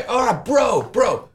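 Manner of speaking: put-on high American-accented kid with his bros; American gamer kid. Son chatting to mates online, high American accent. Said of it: "My kid has an American accent".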